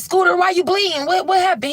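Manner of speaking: high, startled and worried; alarmed question. Retold or imitated. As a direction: ask it in a rush, shocked. Daniel alarmed at the door.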